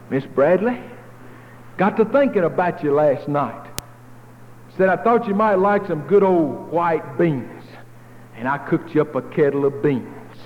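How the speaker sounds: a friendly neighbor at the door, slightly lifted. Retold or imitated.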